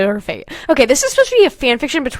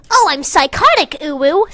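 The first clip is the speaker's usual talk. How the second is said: mocking; 3 semitones higher than usual. Mocking quote.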